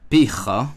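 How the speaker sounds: Picha with guttural ch, rising; Hebrew pronunciation. Shown as a demonstration. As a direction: say Picha slowly, clearly. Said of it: "Notice how the accent is different".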